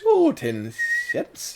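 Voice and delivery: high, slow whistly character voice; imitating a whistling cartoon voice; Sunshine. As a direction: draw it out with whistling S sounds. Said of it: "He'd do it like".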